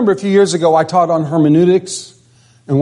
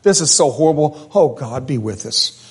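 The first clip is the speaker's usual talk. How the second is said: despairing sigh; 3 semitones lower than usual. Retold or imitated. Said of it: "he was basically just saying".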